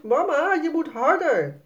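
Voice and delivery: hoog aansporend kind; roepen. A narrator's reading. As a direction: spoor mama luid aan. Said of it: "Sanne roept". (meisje roept mama aan om sneller te gaan)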